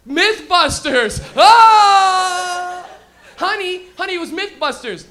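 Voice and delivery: loud, high eureka shout; sudden excited recall. Retold or imitated. Man on the toilet shouting to his wife, excited eureka. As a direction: blurt it out like a sudden discovery.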